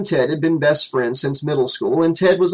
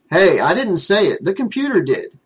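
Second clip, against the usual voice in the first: defensive; 5 semitones higher than usual. Acted. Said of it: "Ted said defensively".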